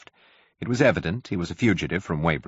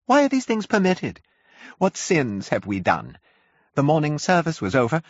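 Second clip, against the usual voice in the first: high, louder, wailing complaint; complaining curate; 10 semitones higher, 3 dB louder than usual. A narrator's reading. Shaken curate complains to the narrator, high and wailing. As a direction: whine it out like a broken man. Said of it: "spoke in almost a complaining tone".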